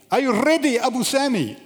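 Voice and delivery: high-pitched shouted call to the roof; retold shout from the truck below; yelling up. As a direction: holler up three storeys to check. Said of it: "he yells out".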